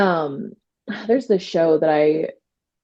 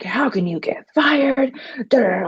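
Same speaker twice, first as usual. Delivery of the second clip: mock angry husband; 6 semitones higher than usual. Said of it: "He is so angry".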